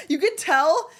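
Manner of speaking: talking through real laughter; fighting back a laugh while explaining. Real, not acted. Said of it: "trying to fight it".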